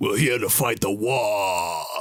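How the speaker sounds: low put-on orcish monster voice, "war" drawn out. Showing how he voices the orcs at the mic, in orcish voice. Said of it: "he'll start talking in the orcish voice".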